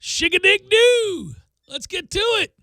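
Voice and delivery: hammed-up high redneck holler, slow on the cheer; high-pitched redneck fan. Cheering on Tennessee fans as a high-pitched redneck. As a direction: play the rowdy fan at the top of the stadium. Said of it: "some high-pitched redneck like that".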